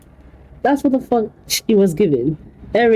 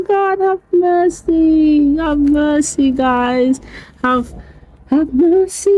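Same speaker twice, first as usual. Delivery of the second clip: have mercy exclamation; 6 semitones higher, slower than usual. Real, not acted. Exclaiming in disbelief.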